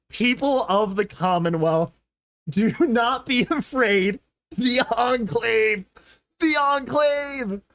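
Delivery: slow, imitating the ominous broadcast; mock broadcast. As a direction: lightly play the solemn announcer. Echoing the broadcast message.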